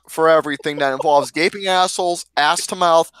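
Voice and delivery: deadpan list of crude details; straight-faced reading. Real, not acted. Host rereading the bio while friends laugh, straight-faced. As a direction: keep a straight face through the bio. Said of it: "saying it with a straight face".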